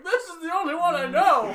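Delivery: high-pitched, mock-protesting old man. Actor protesting a request for another voice, high old man voice. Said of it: "Now do a different old man voice".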